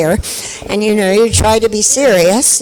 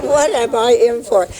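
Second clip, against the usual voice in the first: nervous inner thought; 4 semitones higher than usual. Retold or imitated. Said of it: "I thought".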